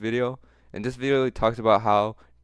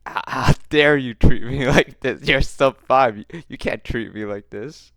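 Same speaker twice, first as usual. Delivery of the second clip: mocking outrage; 5 dB louder than usual. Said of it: "He was like".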